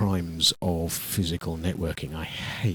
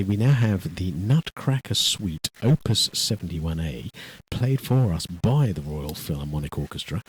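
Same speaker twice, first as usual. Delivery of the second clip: Radio Three announcer voice. Pretend. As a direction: announce it like a posh BBC presenter. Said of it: "put on my very best Radio Three voice".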